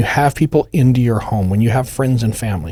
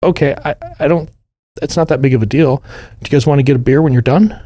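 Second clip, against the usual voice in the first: easygoing Fedor; 3 semitones higher, faster than usual. Retold or imitated. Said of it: "Fedor's like".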